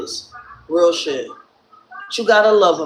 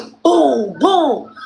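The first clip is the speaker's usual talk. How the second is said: high, punched-out boom sounds; imitated booms; 7 semitones higher, 3 dB louder than usual. Storyteller imitating the break-in, punchy booms. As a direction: punch out two booms like kicks on a door. Imitating the door being kicked in.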